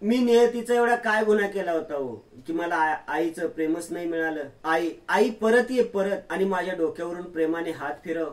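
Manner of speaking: mildly acted sobbing plea to a lost mother; lightly voiced weeping. Grieving daughter begs her dead mother to return, mild tearful plea. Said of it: "Tanvi रडत रडत बोलते".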